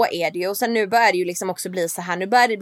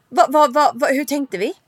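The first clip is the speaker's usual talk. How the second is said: panicked disbelief; 4 semitones higher than usual. Retold or imitated. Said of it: "jag bara".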